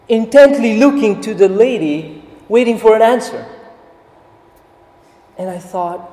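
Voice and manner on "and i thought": ordinary delivery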